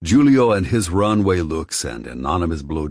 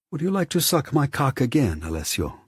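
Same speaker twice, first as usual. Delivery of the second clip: the taunt echoed back higher, mocking; recalled taunt, pitched up; 10 semitones higher than usual. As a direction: replay his words in a raised, mocking voice.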